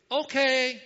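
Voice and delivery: high, loud joking holler back; mock yelled reply. Pastor joking about the neighbors' answer, mock yelled reply. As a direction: pretend neighbors calling back agreeably. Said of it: "they yelled back".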